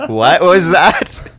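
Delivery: loud, slow, incredulous question; stunned what was that; shocked question. Retold or imitated. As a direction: drag it out in disbelief. Retold shocked reaction.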